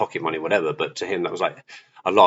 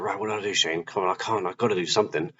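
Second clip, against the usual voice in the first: self pep talk; 5 dB quieter, faster than usual. Retold or imitated. Shane urging himself to do something, quiet self-talk. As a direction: mutter a retold pep talk to yourself.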